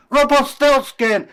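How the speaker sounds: high, loud gotcha; spring the name on him; triumphant reveal. Acted. Queen triumphantly names him.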